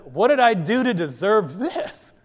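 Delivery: a lightly voiced hurt donkey, slow; slow wounded donkey. Donkey slowly asks its master why he beats it. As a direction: plead slowly like an injured animal. Talking donkey speaks to Balaam.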